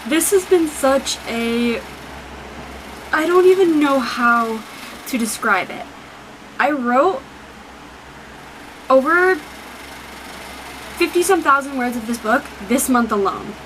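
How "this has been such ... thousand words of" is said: real emotion, barely keeping it together; holding back tears. Real, not acted. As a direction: fight the tears as the words come out. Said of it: "you can hear my fucking tears in my voice".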